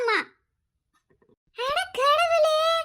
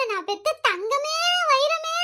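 wailing lament; slower than usual. Acted. Mother lamenting lost daughter.

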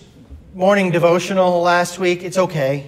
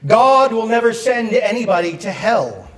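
higher-pitched preacher quoting with emphasis; raised, emphatic pulpit delivery; Billy Graham; 4 semitones higher than usual. Retold or imitated. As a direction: lightly imitate an evangelist, pitch lifted. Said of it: "The Reverend Doctor Billy Graham once said this".

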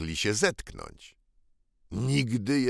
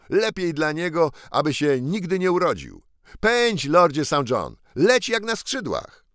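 a touch louder, urgent; eager boy Tom; 8 semitones higher, 5 dB louder than usual. Acted. Tom urging lord Saint John to fly, eager. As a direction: rush the lord off, fervent.

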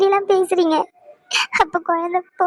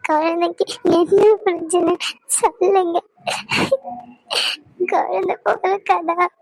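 tearful pleading for an answer; crying. Acted. Wife begs husband for news of the baby, crying. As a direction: beg through sobs. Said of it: "அழுகாதடி".

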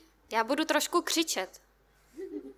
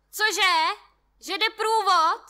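loud, higher yelling from the balcony; shouting back; 5 semitones higher, 6 dB louder than usual. A narrator's reading. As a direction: yell back defiantly while balancing. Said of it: "Křičí na mě zpět". (muž křičí zpět z balkonu)

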